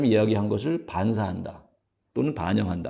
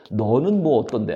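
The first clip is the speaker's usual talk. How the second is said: defensive retort; 3 semitones higher, 6 dB louder than usual. Shown as a demonstration. Accused person returns the blame in a louder mock retort. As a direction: shoot back defensively. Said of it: "또 너를 지적하게".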